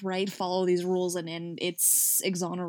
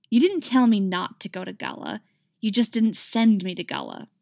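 sharp retort; 5 dB louder than usual. Acted. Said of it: "she retorted".

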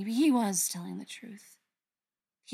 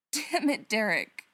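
bitter demand; 5 dB louder than usual. Acted. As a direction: snap it bitterly at him. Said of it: "she demanded bitterly".

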